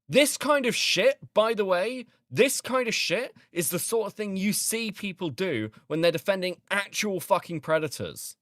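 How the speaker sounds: indignant rant. Real, not acted. Ranting at commenters' defenses.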